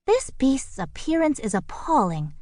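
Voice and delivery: a prim bird tidying up; fussy bird voice. A narrator's reading. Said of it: "said Kalinka".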